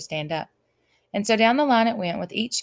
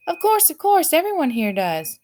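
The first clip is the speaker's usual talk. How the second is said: grunted; 10 semitones higher, 6 dB louder than usual. A narrator's reading. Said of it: "the king grunted".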